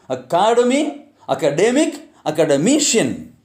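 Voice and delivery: "academy, academic, academician" with the stress moving later in each word; shifting word stress. Shown as a demonstration. Teacher showing how suffixes affect stress, shifting word stress. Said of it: "will really affect the stress".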